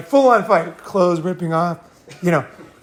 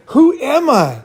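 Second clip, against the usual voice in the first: bewildered; 3 semitones higher than usual. Retold or imitated. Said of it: "I was like".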